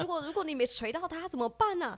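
imitating scared whine. Friend refusing to swat the cockroach, high scared whine. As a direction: play the friend too scared to try.

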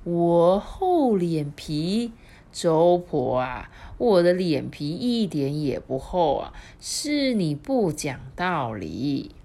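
slow, drawn-out husband voice; lazy old god. Acted. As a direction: calmly talk back to the wife. Old god answers his wife.

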